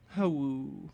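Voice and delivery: mock sad wolf howl; a sad little howl. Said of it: "Did you say how-woo?".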